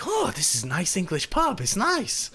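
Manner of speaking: put-on delighted Latvian-accented approval; the speaker's Latvian accent. Latvian guest in the pub, pleased accented approval. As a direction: admire it in a Latvian accent, lifting at the end. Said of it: "this high tone and in this amazing accent".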